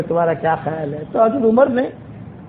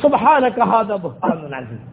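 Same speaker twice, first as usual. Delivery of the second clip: lower, slow recited verse; سبحانک ھذا بہتان عظیم intoned slowly as scripture; Quranic recitation; 5 semitones lower, slower than usual. Retold or imitated. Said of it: "قرآن کی آیت نازل ہوئی".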